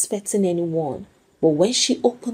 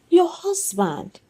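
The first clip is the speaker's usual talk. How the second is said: cautious; 10 semitones higher, slower than usual. A narrator's reading. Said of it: "the caller began cautiously".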